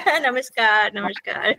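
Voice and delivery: slow greeting through a chuckle; laughing greeting. Real, not acted. Teacher returns the class's namaskar, laughing.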